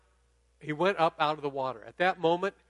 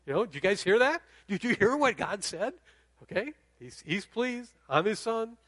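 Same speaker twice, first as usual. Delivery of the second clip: higher, excited calling out; excited bragging; 4 semitones higher than usual. Pretend. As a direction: show off to the crowd, thrilled. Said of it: "I'd be like".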